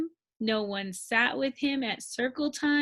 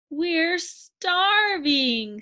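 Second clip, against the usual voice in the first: whiny complaint; 5 semitones higher, 4 dB louder, much slower than usual. Acted. Hungry friends complain.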